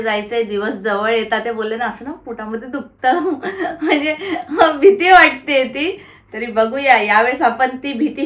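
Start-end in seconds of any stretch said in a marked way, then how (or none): 2.1-6.0 nervous laughing. Real, not acted. Vlogger admits to viewers she fears flying, nervous laughing. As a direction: admit the fear through a little laugh.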